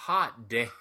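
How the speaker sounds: drawn-out, half-laughing mock amazement; amazed reaction. Co-host recalling his reaction to the wrestler's size, amazed. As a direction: stretch it out like you're impressed, with a laugh.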